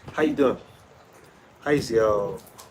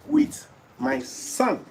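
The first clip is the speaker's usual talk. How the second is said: sing-song high; 11 semitones higher, 4 dB louder, slower than usual. Acted.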